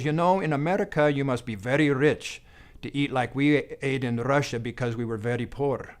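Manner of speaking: put-on a touch of a Russian accent, lifting. Russian patient answering her doctor, mild Russian accent. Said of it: "in her thick Russian accent".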